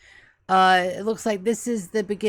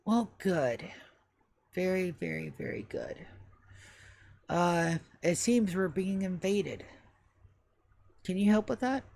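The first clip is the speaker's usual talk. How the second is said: put-on stately old butler; 3 semitones lower than usual. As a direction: think it through word by word like an aged English butler. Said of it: "how I want you guys to think of the voice".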